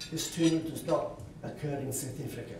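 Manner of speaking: lightly imitated South African accent; a modest go at South African speech. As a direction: attempt your best South African accent. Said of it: "That's my best South African accent".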